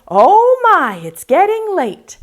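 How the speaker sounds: high, loud little pumpkin; worried pumpkin voice. Acted. First pumpkin in the poem, high and loud fretting. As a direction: squeak it out like a tiny fretful pumpkin. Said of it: "The first one said".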